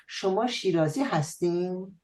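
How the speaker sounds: slight Shirazi dialect colouring; Shirazi accent. Shown as a demonstration. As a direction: say it with a light southern Persian Shirazi accent. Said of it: "with a hint of the Shirazi dialect".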